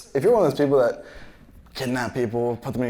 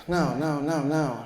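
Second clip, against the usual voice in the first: lightly imitated child, pitched up; a hint of a small kid refusing; little kid; 4 semitones higher, slower than usual. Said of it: "this kid walks up to us".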